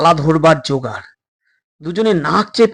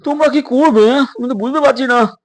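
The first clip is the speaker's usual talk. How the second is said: stern doctor; 6 semitones higher than usual. Acted. Doctor scolds runaway boys.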